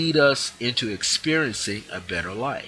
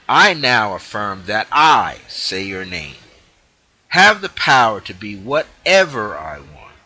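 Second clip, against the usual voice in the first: with feeling; 7 dB louder than usual. Shown as a demonstration. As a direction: say it with real feeling, full of energy. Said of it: "So now let's say it with feeling".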